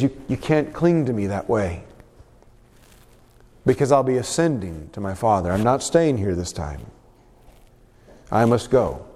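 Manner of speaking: low, subdued, patient voice; gentle explaining. Acted. Jesus tells clinging Mary he is leaving, low and gentle. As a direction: let her down gently, pitched low.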